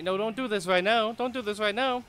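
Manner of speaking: begging her not to now; exasperated plea. Real, not acted. Companion interrupts a fight.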